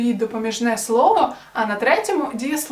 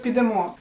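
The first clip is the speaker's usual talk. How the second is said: підемо stressed on the last syllable, підемо́; підемо ending in a stressed "мо"; final-syllable stress. Shown as a demonstration. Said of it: "наголос на останній склад".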